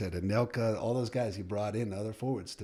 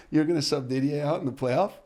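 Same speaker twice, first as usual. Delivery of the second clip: loud and higher, staff in disbelief; stunned disbelief; 7 semitones higher, 10 dB louder than usual. Retold or imitated. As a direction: assistant coaches gasp at the sub, loud and incredulous. Stunned coaches question the sub.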